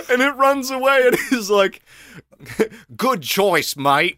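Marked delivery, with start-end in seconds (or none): 2.9-4.2 mock Australian accent, lightly done; a light Australian twang on good choice mate. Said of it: "I'm giving him an Australian accent".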